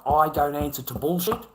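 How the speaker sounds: I don't answer to bullshit said loud, rising on I; defiant declaration. Retold or imitated. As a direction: proclaim it like a signed verdict. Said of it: "I signed".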